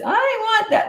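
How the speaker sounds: mother imitating a whining daughter, high whine; whining child. Shown as a demonstration. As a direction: whine like a kid who wants a toy. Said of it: "when you whine, and that's this".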